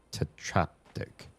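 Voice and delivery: Tetraptych breathed slowly, almost voiceless; whispered try-out. Shown as a demonstration. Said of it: "trying the word out".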